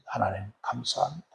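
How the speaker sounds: very soft, tearful prayer; tearful thanks. Retold or imitated. Wife thanking God for her husband, softly tearful. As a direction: breathe out thanks through mild tears. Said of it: "그때 눈물로 기도".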